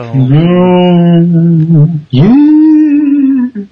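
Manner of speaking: long, high ghostly wail; playful haunting "ooooh", rising high; spooky wail. Pretend. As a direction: wail high and drawn out to scare someone. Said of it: "Did that scare you?".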